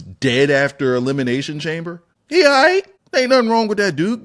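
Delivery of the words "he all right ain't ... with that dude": exasperated outburst. Real, not acted. Defending Sami Zayn's booking.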